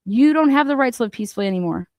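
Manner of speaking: quick scornful throwaway of the quote; rapid sneering echo; fast mocking repeat. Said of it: "you have no idea what that even means".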